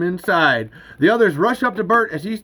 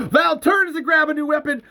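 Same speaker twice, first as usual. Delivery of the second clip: higher-pitched, urgent action read; urgent narration; 9 semitones higher than usual. A narrator's reading. Narrator reading out a frantic gun battle, urgent.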